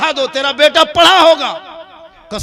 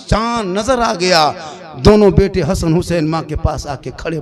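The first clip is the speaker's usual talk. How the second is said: ordinary delivery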